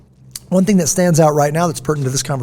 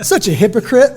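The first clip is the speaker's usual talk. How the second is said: mock accusation; 8 semitones higher, 4 dB louder than usual. Mocking accusation from childhood friend.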